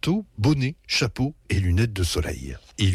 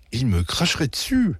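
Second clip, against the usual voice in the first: ordinary delivery, nothing marked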